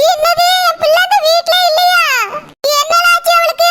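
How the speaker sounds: panicked mother starting to cry; mother hears her daughter has left home, crying; crying out in alarm. Acted. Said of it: "நீ அழாதம்மா".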